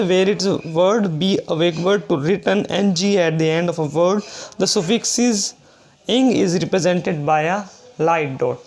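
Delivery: reads the English rule out slowly, word by word; slow rule reading. Shown as a demonstration. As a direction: dictate the rule slowly to students. Teacher reads rule text aloud. (धीरे-धीरे नियम पढ़कर सुनाना)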